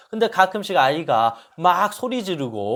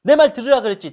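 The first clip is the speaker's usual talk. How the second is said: angry scolding; 7 semitones higher, 8 dB louder, faster than usual. Retold or imitated. Mother snaps at whining son.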